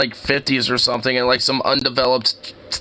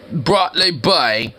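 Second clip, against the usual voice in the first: light mock English accent; slower than usual. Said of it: "I made a very English thing".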